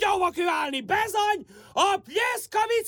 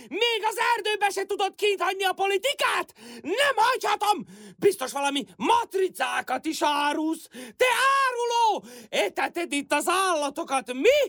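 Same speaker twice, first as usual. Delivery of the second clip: agitated. Acted. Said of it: "Nyugodjon már meg!".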